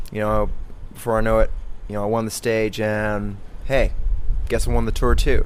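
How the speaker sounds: offhand bragging, punched out loud; Lance Armstrong impression. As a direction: shrug off the win like a swaggering champion. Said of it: "he concludes his little description by saying".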